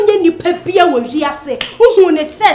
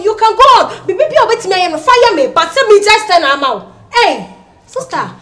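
angry; 2 semitones higher, 5 dB louder than usual. Acted. Taunting rival sister loudly.

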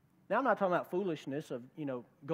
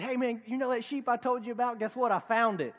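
excited news; 4 semitones higher, 3 dB louder than usual. Retold or imitated. Shepherd telling friends sheep found.

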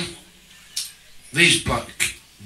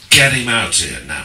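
bad Cockney accent; 2 semitones lower, 5 dB louder than usual. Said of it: "It's not a very good Cockney accent".

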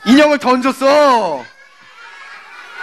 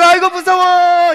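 higher, drawn-out mock-scared wail; pretend fear; 5 semitones higher, slower than usual. Child hiding under the blanket, playfully scared. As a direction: play at being a frightened child.

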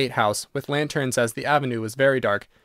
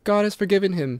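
gravely; 7 semitones higher than usual. A narrator's reading. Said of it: "said Virginia gravely".

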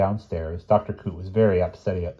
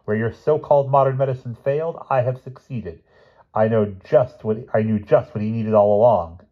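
boastful; 5 semitones higher, 4 dB louder than usual. Acted. Professor boasting to nurses.

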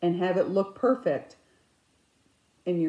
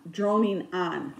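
droning; slower than usual. Shown as a demonstration. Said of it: "you hear me droning on".

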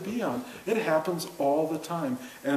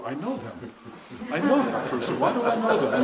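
confused mother-in-law. Retold or imitated. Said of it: "like my mother-in-law when she was demented".

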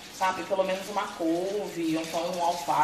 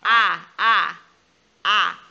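loud, high sing-song coaxing; mother feeding her son in a loud, high sing-song voice; 5 semitones higher, 7 dB louder, slower than usual. Real, not acted. Feeding baby, airplane sounds.

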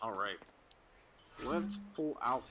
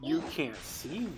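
John Cena; 2 semitones higher than usual. Retold or imitated. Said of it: "It's almost like John Cena".

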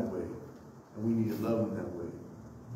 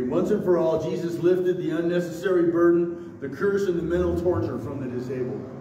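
higher, louder pulpit delivery; emphatic preaching; 6 semitones higher, 6 dB louder than usual. Real, not acted. Pastor arguing about the blind man's guilt, emphatic preaching. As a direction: drive the argument home to the congregation.

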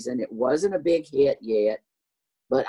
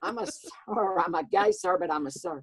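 high-pitched mock indignation; mad retort; 13 semitones higher, 3 dB quieter than usual. Caller mistaken for ma'am, high mock-mad insistence. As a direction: insist in a high, hammed-up huff. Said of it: "especially when I'm mad".

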